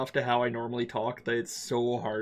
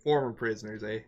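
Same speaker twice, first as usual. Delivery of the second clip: put-on Canadian accent. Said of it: "Canadian accent".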